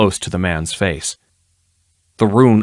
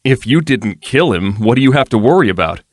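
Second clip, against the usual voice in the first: reasonable; 4 semitones higher, 4 dB louder than usual. A narrator's reading. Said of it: "he asked reasonably".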